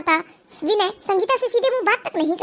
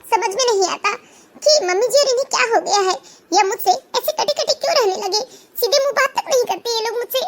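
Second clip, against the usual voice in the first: acted tearful outpouring to mother; wounded daughter-in-law on the edge of tears; breaking down; 3 semitones higher than usual. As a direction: pour out hurt and bewilderment, half sobbing. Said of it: "अपनी माँ के सामने फूट पड़ती है".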